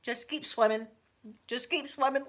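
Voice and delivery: lightly voiced Dory chant; Dory sing-song. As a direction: cheer yourself on like Dory. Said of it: "as Dory said".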